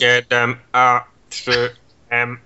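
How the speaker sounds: slow, even robot voice. Shown as a demonstration. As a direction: spell it out like a robot. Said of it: "a teraz powiedz to głosem robota".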